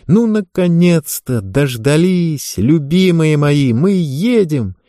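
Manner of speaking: squealing with joy, drawn out; bubbly sorority girl. Acted. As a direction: gush like an overjoyed teen girl. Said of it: "Ева завизжала от радости".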